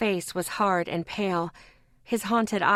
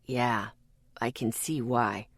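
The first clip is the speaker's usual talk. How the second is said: grim man voice; 8 semitones lower, 4 dB quieter than usual. A narrator's reading. Ethan dark reply.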